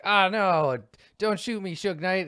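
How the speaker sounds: high, loud mock plea; hammed-up kid begging in a game; play-fight shouting. Boy being shot at in play, high mock shouting.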